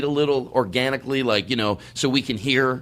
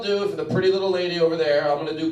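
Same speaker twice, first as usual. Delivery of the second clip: higher, bright show voice; cheesy improv comic; 6 semitones higher than usual. Acted. Comic asks the crowd to shout professions, in a cheesy showman voice. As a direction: sell it to the crowd.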